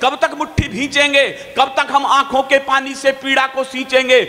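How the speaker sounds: rising, slow patriotic declamation; fiery poem recital. Acted. Poet recites the fresh line to the audience, fiery. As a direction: build the verse like a rally cry.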